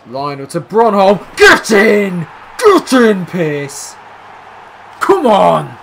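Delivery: high, loud roaring celebration; ecstatic goal shout. Real, not acted. Celebrating Pierce's goal, screaming with joy. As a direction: scream it as the ball goes in.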